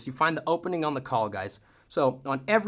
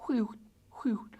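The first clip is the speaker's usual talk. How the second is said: turkey whine; 8 semitones higher, 5 dB quieter, slower than usual. Shown as a demonstration. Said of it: "just going".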